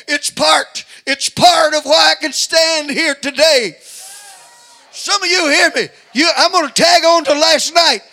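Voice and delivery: loud, high shouting sermon; preaching at full force. Acted. Preacher urging congregation to crucify the flesh, shouting. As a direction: build to a hollering preacher's climax.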